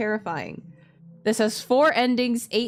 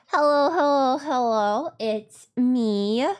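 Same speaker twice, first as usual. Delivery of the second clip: excited greeting; 4 semitones higher, 4 dB louder, slower than usual. Real, not acted. Excited opening of the stream.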